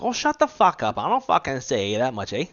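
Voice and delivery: high, loud mock Canadian outburst; mad Canadian. Canadian girlfriend's crowd protesting the teasing, mock-angry imitation. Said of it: "They'd get so mad".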